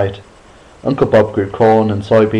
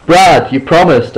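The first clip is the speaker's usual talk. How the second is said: slow, high, loud scolding; scolding a cousin for faking; 7 semitones higher, 6 dB louder, slower than usual. Acted. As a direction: drag it out like a scolding. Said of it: "I scolded".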